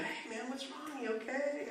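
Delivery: retold tender, concerned question; gentle concern. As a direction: gently ask after someone who's crying. Gently approaching a crying stranger.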